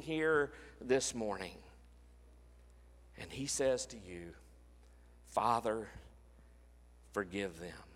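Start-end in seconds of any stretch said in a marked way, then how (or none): 5.3-7.8 much softer and lower, nearly a whisper; a quiet, tender echo of the cry; hushed plea. Acted. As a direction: pull right back and let forgive them fall away. Same words after the climax, softened.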